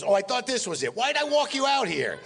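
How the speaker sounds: mock dismay, climbing very high; Mel Brooks. Mel mistaking a Bentley for the guest's car, hammed-up dismay. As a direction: imitate rising exasperation. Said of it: "He goes".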